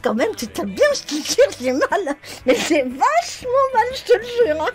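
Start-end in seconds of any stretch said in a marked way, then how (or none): 1.6-3.9 laughing. Real, not acted. Complaining of pain after punch.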